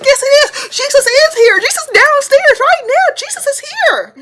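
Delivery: loud, squealing high-pitched insistence; out-shout the cousins like a frantic child; insistent yelling. Retold or imitated. Child insisting in acted quarrel.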